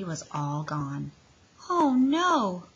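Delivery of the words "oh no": high, louder wail of dismay; a touch of a wail; dismayed cry. Acted. Froggy finding his candy bag empty, a high dismayed cry. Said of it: "cried Froggy".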